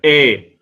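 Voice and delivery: إيه said like English A, between آ and إي; strong imala. Shown as a demonstration. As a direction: lean alif toward ya, as in English A. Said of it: "تقول إيه، هكذا". (إيه بإمالة شديدة كحرف A الإنجليزي)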